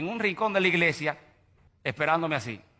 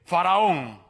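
lightly voiced proud prince; 3 semitones lower, much slower than usual. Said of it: "este hombre no decía".

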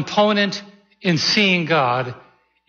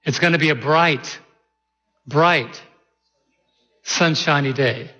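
lyric spoken very slowly, word by word; slow, deliberate reading; slower than usual. Shown as a demonstration. Pastor reading the lyric anew for the church, very slowly. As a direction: draw out every phrase of the lyric. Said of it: "hear the words in a different way".

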